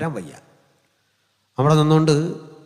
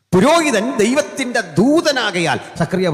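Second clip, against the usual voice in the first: high, loud scripture declamation; full-force preaching; 12 semitones higher, 6 dB louder than usual. Real, not acted. Preacher quoting the prophet on priests, full-force preaching. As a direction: proclaim it in a raised pulpit voice.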